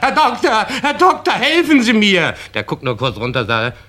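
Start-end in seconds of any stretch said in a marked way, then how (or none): 0.0-2.3 high pleading call to the doctor; desperate high-pitched plea; desperate cry for help. Acted. Patient calling desperately for doctor.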